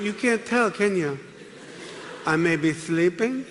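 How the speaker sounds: slow, rising creepy threat; mock sinister sleep threat; menacing roommate. To the narrator, roommate threatening him in his sleep, slow and creepy.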